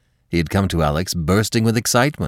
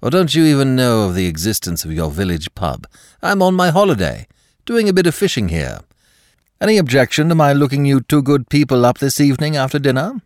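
hearty; 7 semitones higher, 4 dB louder than usual. Acted. Dick cheerful on phone.

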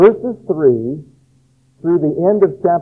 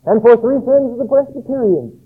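higher, ringing prophetic proclamation; modern prophet proclaiming; 6 semitones higher than usual. Pretend. A prophet today warning the churches, higher and ringing. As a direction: thunder it out like an old prophet. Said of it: "prophet naming churches".

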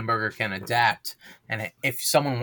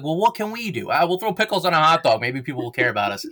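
higher, desperate try-hard city voice; mocking Chicago voice; 4 semitones higher than usual. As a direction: voice Chicago begging to matter, mockingly. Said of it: "so Chicago's like".

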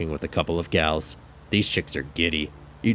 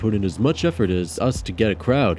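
grumbling bandmate; 5 semitones higher, 5 dB louder than usual. Acted. Seb ranting after show.

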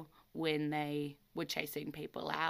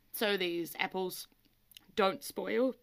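choking on a drink; 2 semitones higher than usual. Real, not acted. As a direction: voice catching from choking. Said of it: "choking slightly".

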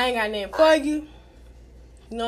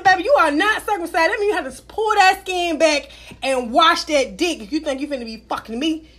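scolding lecture; 4 semitones higher, 5 dB louder than usual. Retold or imitated. Scolding boyfriend.

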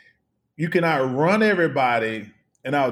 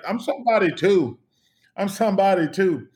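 pitched up, half-joking protest; mock indignant plea; 6 semitones higher than usual. Ignored next to Bo Jackson, a mock indignant plea. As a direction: whine that you matter too.

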